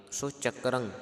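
ਚੱਕਰੰ with the nasal ending clear; model pronunciation. Shown as a demonstration. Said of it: "ਇਸ ਪ੍ਰਕਾਰ ਆਪ ਜੀਆਂ ਨੇ ਉਚਾਰਨ ਕਰਨਾ". (ਚੱਕਰੰ ਟਿੱਪੀ ਦੀ ਆਵਾਜ਼ ਨਾਲ)

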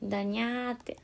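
cat-like Shinjo dialect. Shown as a demonstration. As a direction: stretch the ending into a Shinjo meow. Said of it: "ガチでにゃーって言うからね。".

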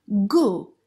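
"Γκου" with a hard g as in go; hard G sound. Shown as a demonstration. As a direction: say "Γκου" starting like English "go". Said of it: "sounds like G in the word go".

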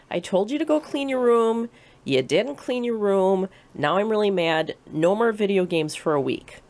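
hammed-up mom scolding over the messy room; retold furious mom. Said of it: "she is furious".

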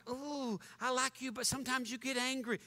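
mild mock congregant. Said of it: "some of you people are like".

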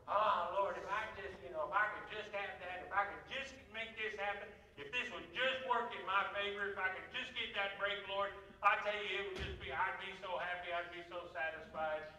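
a hint of a whiny plea to the Lord; lightly whine, begging for that break; mock whining prayer. Preacher imitating his younger self whining to God, mildly whiny. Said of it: "a whiny psalmist myself".

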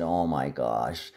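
low, soft, slow hush of disbelief; a hushed, slowed oh my gosh; retold quiet gasp. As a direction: breathe it out quietly to yourself, stunned. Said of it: "I said quietly to myself".

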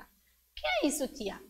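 a pupil raising a question in class; child asking teacher. Pretend. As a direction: play a small student asking tia.

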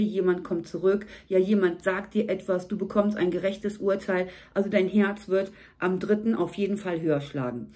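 ordinary delivery

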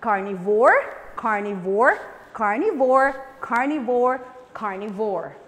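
carnivore chanted five times; drill word. Shown as a demonstration. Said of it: "Can we say it five times?".

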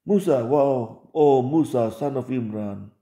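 mock exclamation. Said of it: "Allah doesn't talk like that".

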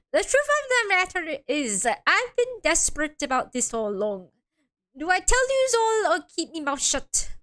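lightly voiced Irish defendant; attempted Irish accent. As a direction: try a rough Irish lilt. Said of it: "I can't do the Irish accent".

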